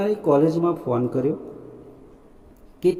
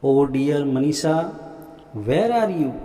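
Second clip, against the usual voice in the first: joyful shout; much slower than usual. Retold or imitated. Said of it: "I shouted out of joy".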